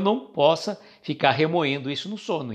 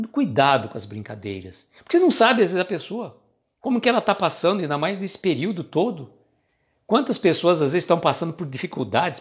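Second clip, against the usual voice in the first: usual speaking voice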